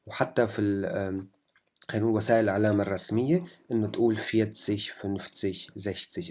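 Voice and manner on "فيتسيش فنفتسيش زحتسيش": فيتسيش, فنفتسيش, زحتسيش said softly ending in sh; standard German -zig. Shown as a demonstration. Teacher models standard German sh ending, softly. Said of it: "كحرف شين".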